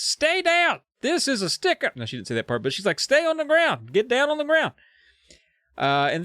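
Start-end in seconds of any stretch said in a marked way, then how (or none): 0.0-2.0 screaming. Acted. Heroine shouting, ad-lib. 3.0-4.7 screaming. Acted. Heroine shouting at kids.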